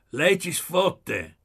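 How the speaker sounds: loud, high, drawn-out cry; shouted. A narrator's reading. Pieretto calling out from the bush, shouting. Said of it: "bagnando un cespuglio gridò".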